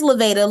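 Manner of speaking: "Lavada" with a long A in the middle, la-VAY-da; long A name. Shown as a demonstration. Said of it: "long A".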